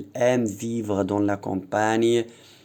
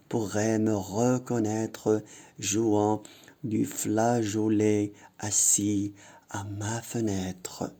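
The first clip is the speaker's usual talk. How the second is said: poem recitation. Shown as a demonstration. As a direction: recite it carefully for the class. Reads the poem aloud. (récitation lente et appuyée du poème)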